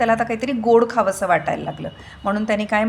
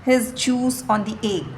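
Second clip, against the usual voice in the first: slow, deliberate classroom reading; measured, careful storybook narration; story read-aloud; 2 semitones higher, much slower than usual. A narrator's reading. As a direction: read it out word by word for pupils.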